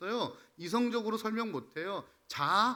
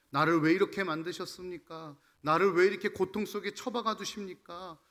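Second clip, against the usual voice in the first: resentful complaint; 5 dB louder than usual. Retold or imitated. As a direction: act out a bitter complaint to God. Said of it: "막 원망하고 불평하려는". (하나님을 원망하듯 따지는 말투)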